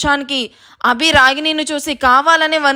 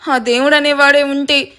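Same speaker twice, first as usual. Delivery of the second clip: melodramatic wronged-victim lament; mock crying; 2 semitones higher than usual. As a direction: play the martyr, lightly wailing. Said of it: "గట్టి గట్టిగా ఏడుస్తూ ఉంటుంది".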